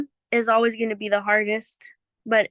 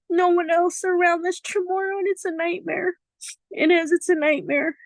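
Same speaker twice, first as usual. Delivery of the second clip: holding back tears; 5 semitones higher than usual. Real, not acted. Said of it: "Oh my God, I don't wanna cry".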